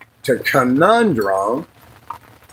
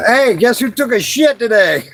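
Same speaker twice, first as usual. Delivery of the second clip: 1 high mock cheer; 9 semitones higher than usual. Teasing fishing buddy about bowels.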